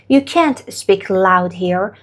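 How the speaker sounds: very slow, each word spaced out for learners; slow model sentence. Shown as a demonstration. Teacher giving an example very slowly for students. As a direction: say it slowly so students can repeat. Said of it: "باید از can استفاده بشه".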